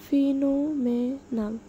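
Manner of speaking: ফিনোমেনাল drawn out syllable by syllable; pronunciation demo. Shown as a demonstration. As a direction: say ফিনোমেনাল slowly for learners to repeat. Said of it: "বলো, আমার সাথে বলো". (ধীরে ধীরে ফিনোমেনাল উচ্চারণ)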